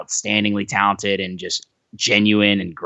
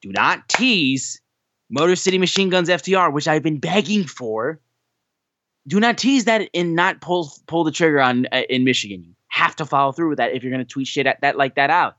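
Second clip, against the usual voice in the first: mock outraged plea; 6 semitones higher than usual. Fan scolds Dax over his tweet, mock outraged and high. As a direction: beg him not to tease the match, hammed up. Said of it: "I'm like".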